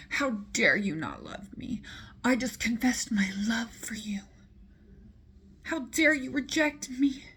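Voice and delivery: hammed-up indignant queen; mock outrage. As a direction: play the scorned queen demanding answers. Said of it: "She's like".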